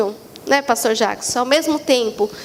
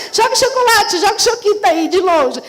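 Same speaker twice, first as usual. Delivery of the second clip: playful moody woman; 2 semitones higher than usual. Retold or imitated. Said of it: "me dar chocolate de longe pra acalmar".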